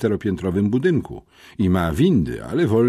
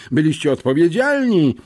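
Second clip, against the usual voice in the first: louder, higher teacher rebuke; raised voice; 9 semitones higher, 6 dB louder than usual. A narrator's reading. Pilecki raising his voice at the pupils, loud reproach. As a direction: raise the voice at them. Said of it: "podniósł głos Pilecki".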